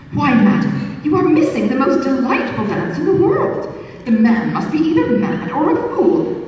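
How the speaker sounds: mock-polite flirtatious suitor; a hint of an insinuating beau; foppish gallant. Suitor's voice in read novel.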